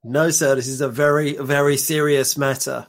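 serious doctor. Acted. Doctor admonishing giggling patient, mock-serious. Co-host plays the stern doctor.

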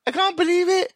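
mock crying. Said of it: "she pretty much starts crying".

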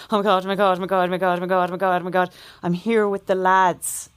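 loud panicked excited babble; freaking out. Retold or imitated. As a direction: gush it out in a total flap. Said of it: "my brother calls me in a complete flap".

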